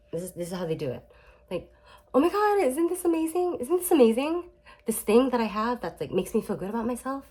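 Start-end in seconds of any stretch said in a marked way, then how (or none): 2.1-7.2 high-pitched gushing, bursting with good news; acted-out thrill, eager to show it off; excited sharing. Child sharing happy news with a narcissistic parent, excited.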